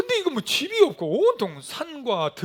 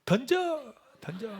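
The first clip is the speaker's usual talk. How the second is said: granny's call; 7 semitones higher, slower than usual. Retold or imitated. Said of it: "그 안에 있던 할머니가".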